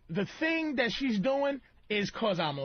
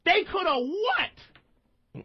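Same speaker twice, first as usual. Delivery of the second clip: mock girlfriend yelling; 7 semitones higher than usual. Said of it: "right, and goes".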